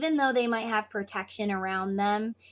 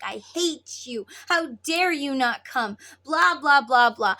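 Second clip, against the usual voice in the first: mock angry outburst, punched loud; acted angry words; 2 semitones higher, 5 dB louder than usual. Twin sending bad words to the other, mock angry. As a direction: spit out mean words as an example. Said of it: "we're sending bad words like".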